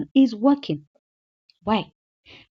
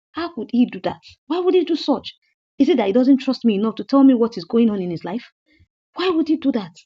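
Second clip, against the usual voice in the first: mock angry wife; 2 semitones higher than usual. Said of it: "Then she was angry".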